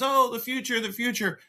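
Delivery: high, excited mimicry of fan hype; mock hype. Waving off talk of Young Lions as the future, mock hype. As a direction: gush it high-pitched, mockingly.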